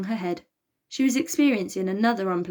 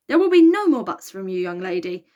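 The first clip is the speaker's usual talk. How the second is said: stern shout; 8 dB louder than usual. A narrator's reading. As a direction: shout down the excuses. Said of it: "shouted Taurus".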